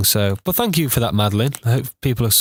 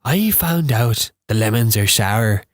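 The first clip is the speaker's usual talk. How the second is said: slow, stretched Irish imitation; amateur slow Irish accent; Irish accent attempt; slower than usual. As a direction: draw out the Irish vowels slowly. Practising the Irish sentence.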